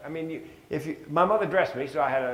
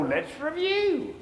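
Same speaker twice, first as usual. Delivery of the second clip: slow review; much slower than usual. Retold or imitated. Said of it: "I go".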